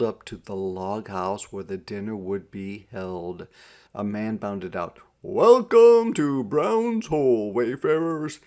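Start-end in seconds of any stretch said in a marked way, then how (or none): 5.2-8.4 loud, slow Scottish welcome; thick Scots brogue. A narrator's reading. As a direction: greet them in a broad Scots accent. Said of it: "in a thick Scots brogue".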